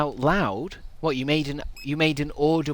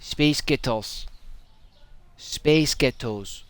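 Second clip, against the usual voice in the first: drawn-out Scottish-accented chant; lightly put-on Scottish accent; 3 semitones higher, slower than usual. Shown as a demonstration. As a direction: say it like a Scot, stretching the words. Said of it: "sounds like a Scottish person saying".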